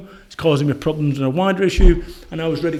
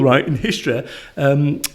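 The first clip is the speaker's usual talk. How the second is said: ordinary talk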